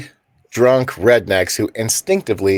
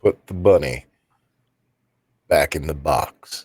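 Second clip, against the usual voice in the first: Nicolas Cage impression; 10 semitones lower, 4 dB quieter than usual. Friend asked to do the famous movie line, menacing Cage voice. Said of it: "Dave, do the line".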